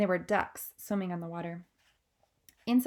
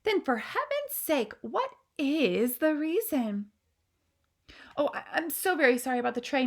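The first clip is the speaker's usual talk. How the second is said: higher, urgent questioning; impatient queen; 6 semitones higher, 4 dB louder than usual. Acted. Queen pressing her frightened maid, impatient. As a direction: demand the reason now.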